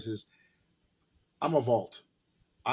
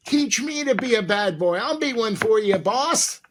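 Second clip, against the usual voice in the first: playful plea; 8 semitones higher, 5 dB louder than usual. Pretend. Joking plea, higher louder.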